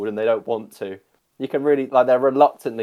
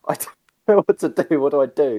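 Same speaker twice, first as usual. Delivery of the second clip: flustered, laughing retelling; laughing helplessly; 4 semitones higher, 4 dB louder, faster than usual. Retold or imitated. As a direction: laugh through the panic. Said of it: "I literally said to them".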